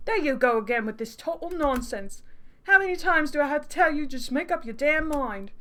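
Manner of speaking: exasperated fake British accent; hammed-up British accent, fed up; bad British accent. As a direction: scold in a dodgy British accent. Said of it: "he deserves a really bad accent".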